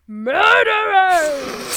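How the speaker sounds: drawn-out, high, loud roar; beast's bellow. A narrator's reading. Creature bursting through the cottage door, bellowed. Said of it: "bellowed through a maw full of fangs".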